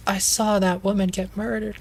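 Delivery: high mock-panicked telling; high shaken woman. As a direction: blurt it like she's in shock. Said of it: "she's like".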